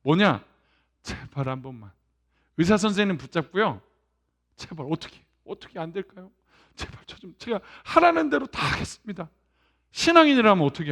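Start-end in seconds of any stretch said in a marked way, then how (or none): 1.0-9.3 pleading. Retold or imitated. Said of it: "협상, 타협이에요".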